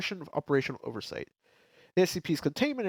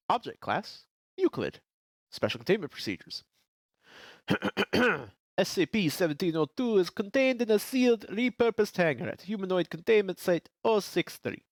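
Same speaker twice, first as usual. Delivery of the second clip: attempted French accent; 5 semitones higher than usual. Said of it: "This is not French accent".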